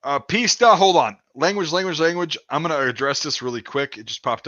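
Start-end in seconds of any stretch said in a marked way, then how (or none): 0.2-2.4 loud, high warning call. Real, not acted. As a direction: sharply call the chat to order. Warning chat about language.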